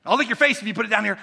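fast, laughing eager dog; dog begging to lick the owner's face. Acted. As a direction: rush it out through a laugh. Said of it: "what the dog does".

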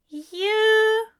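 high, loud, drawn-out questioning; baffled. A narrator's reading. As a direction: shoot the pitch up in bafflement. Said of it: "Aziraphale sounded baffled and suddenly quite sober".

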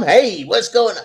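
lightly put-on laid-back movie character greeting; a singer-actor. Goofing around as an actor's film character, lightly imitated. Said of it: "walk around acting like ...".

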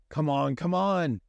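a touch of pleading; urging, praying. Acted. Young man urges the ship on, mildly pleading. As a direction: urge the ship to start. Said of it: "he urged her on, praying".

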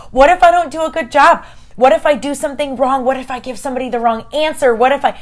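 high, anxious what-ifs; worked-up self-doubt, acted out; nervous worrying. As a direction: fret aloud, starting loud and high. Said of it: "I'm so nervous".

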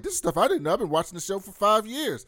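high, loud amazed outburst; amazed exclamation. Retold or imitated. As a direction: blurt it out, genuinely amazed. Excited recap of video.

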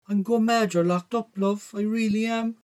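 high, sustained motherly voice; high-pitched mam fussing over her son; mother on the phone. A narrator's reading.

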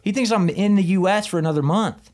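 high, loud, comic disbelief; incredulous exclamation. Real, not acted. Telling friends the boss has no idea, incredulous. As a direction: pitch it way up, amazed at the absurdity. Amazed at absurdity of the call.

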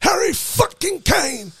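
shout. Real, not acted. Friend asks Harry who.

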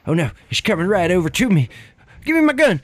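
hammed-up hillbilly panic; panicked hillbilly. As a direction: scramble for the gun in panic. Son panics at UFO.

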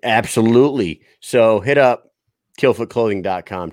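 upbeat sponsor plug; ad read. Acted. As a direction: pitch the merch like a host reading an ad.

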